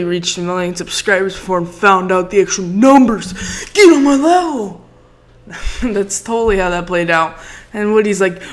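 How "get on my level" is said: mock boast.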